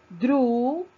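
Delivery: "Dru" isolated, loud and drawn out; long, forceful "Dru"; stressed syllable. Shown as a demonstration. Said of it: "es la sílaba tónica".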